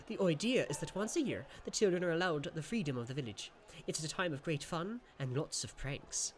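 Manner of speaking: the imp sharing a secret custom; lightly voiced sprite. Jan explains festival.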